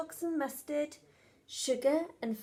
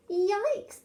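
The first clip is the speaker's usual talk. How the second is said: mild surprise; 8 semitones higher than usual. Acted. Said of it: "Betty said".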